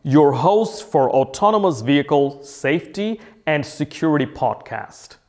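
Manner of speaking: podcast intro. Acted. Host opening his safety podcast for listeners, announcer style. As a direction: announce the show and sponsor, word by word.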